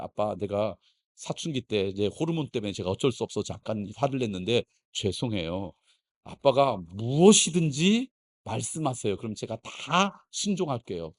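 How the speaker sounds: understated, submissive apology; contrite son. Acted. Son apologizing to father, acted.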